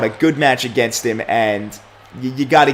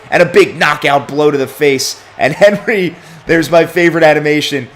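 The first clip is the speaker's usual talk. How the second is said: excited play-by-play; 3 semitones higher, 6 dB louder than usual. Acted. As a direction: sell the knockout blow to the crowd. Calling the big knockout and bear hug.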